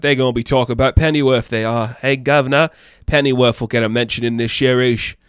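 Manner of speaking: mock British chap, lightly done; playful fake British accent; put-on British accent. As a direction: ham up a British accent a little. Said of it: "I don't know why I did that accent".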